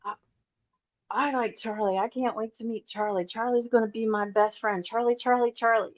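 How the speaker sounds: voicing the unborn baby. Psychic voicing the excited baby in the womb, lightly childlike. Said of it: "the baby starts talking about".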